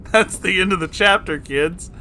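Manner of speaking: amused sign-off. Real, not acted. Wrapping up the chapter, amused.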